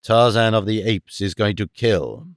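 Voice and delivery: a deadly calm vow; grim Tarzan. Acted. Tarzan announces the kill.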